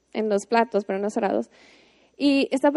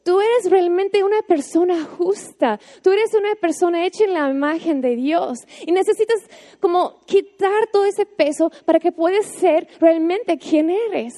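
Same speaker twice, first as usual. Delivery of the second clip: Jesus gently telling a listener who they really are, higher and tender; gentle voice of Jesus; 5 semitones higher than usual. Retold or imitated. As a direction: speak as Jesus lifting someone up, higher and unhurried. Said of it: "Jesús nos dice".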